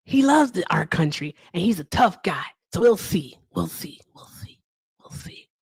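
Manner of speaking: light impression fading into a whisper; Donald Trump. Trump praising a tough guy, impression fading out. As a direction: trail the repeats away to almost nothing. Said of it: "That is my Trump impression".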